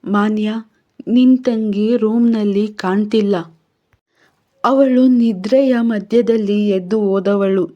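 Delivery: a mild touch of anxiety; worried warden breaking bad news; understated alarm of the warden on the phone; very anxious. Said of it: "warden ಧ್ವನಿ ತುಂಬ ಆತಂಕದಲ್ಲಿತ್ತು".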